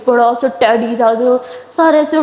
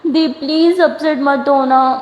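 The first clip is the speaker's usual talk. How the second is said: tearful pleading; 3 semitones higher, much slower than usual. Acted. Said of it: "رو کیوں رہی ہو؟".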